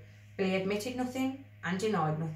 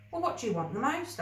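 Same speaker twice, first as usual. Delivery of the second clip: higher little creature voice; lightly voiced magical creature; tiny creature asking; 6 semitones higher than usual. A narrator's reading. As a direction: coax the boy's wish out of him. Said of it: "asked Chimichanga".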